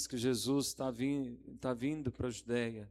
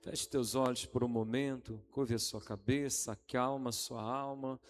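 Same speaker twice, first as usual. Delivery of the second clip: guided prayer. Acted. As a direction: invite them to close eyes and pray. Leads congregation in prayer.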